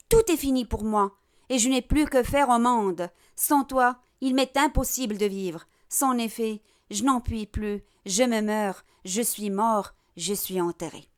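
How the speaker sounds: understated lament, sinking in pitch and volume; fading despair. Acted. Robbed miser giving up on life, despair fading away. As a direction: let the despair gradually die away. Acted end of Harpagon's despairing monologue.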